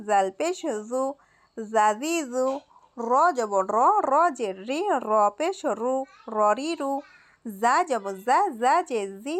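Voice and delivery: steady sing-song chanting of letters and vowels; rhythmic recitation drill. Shown as a demonstration. Teacher drilling students in Arabic letters, sing-song recitation. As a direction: chant each syllable for students to repeat.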